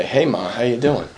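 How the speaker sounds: soft, gentle hello to mom; quiet, tender check-in with his mother; gentle greeting. Retold or imitated. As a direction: greet mom softly, calm and kind. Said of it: "I'm gonna say".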